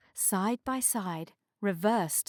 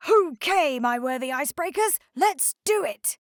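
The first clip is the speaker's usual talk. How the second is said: sleepy tugboat voice; 6 semitones higher, 6 dB louder than usual. A narrator's reading. Harry character voice.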